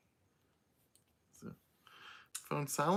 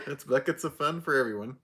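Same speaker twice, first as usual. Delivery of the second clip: laughing. Real, not acted. Laughing at a joke.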